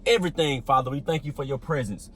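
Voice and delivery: low, subdued praying voice; opening prayer. Real, not acted. Pastor opens the video thanking the Father, low prayerful voice. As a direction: pray in a low, even voice.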